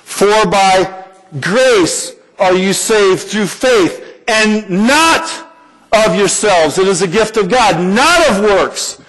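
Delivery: slow, measured reading of scripture; solemn scripture recital, slowed. Real, not acted. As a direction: read the verse with weight. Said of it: "Believe this".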